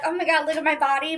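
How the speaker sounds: quick, light imitation of a show-off; tossed-off mock brag, said fast; mock bragging quote. Vlogger mocking show-off posts, a quick light brag. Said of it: "I don't usually jump on here and be like".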